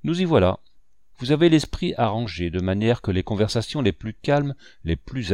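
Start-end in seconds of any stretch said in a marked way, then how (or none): 0.0-0.6 pleased, pitched up; quite pleased. A narrator's reading. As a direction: say it with lifted, contented satisfaction. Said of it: "dit-il tout content".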